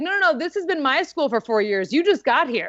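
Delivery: retold outrage, pitch climbing toward the end; upset, indignant. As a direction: protest in disbelief, building to a high-pitched finish. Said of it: "I was so upset that".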